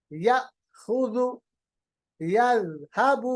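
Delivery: یأخذ and یذهب drawn out very slowly, each letter clear; slow, careful word reading; very slow recitation. Shown as a demonstration. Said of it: "جھٹکا مطلب آواز میں نے روکا". (بہت آہستہ، ہر حرف صاف)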